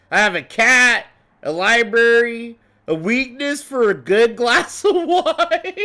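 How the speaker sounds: a hint of Gale's self-satisfied charm; imitating Gale. Streamer quoting Gale's intro line, lightly mocking. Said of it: "Gale is pretty much Cho Murray seven".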